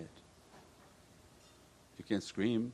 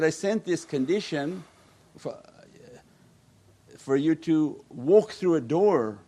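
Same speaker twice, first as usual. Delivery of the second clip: higher, louder divine rebuke; raised preaching voice, slowed on the door; emphatic preaching; 4 semitones higher, 4 dB louder than usual. Acted. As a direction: preach it with rising force. Voicing God's words, preaching.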